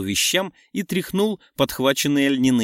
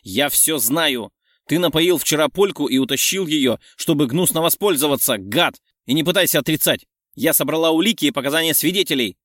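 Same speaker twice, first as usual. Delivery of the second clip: louder, fast angry tirade; angry accusation; 2 semitones higher, 4 dB louder than usual. Acted. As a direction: rattle off the charges. Friend accusing Mark loudly.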